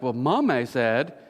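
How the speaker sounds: drawn-out British-style "Mommy"; lightly mocked British accent; touch of British accent. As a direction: imitate a sister's slightly British delivery. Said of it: "with, like, a touch of, like, a British accent".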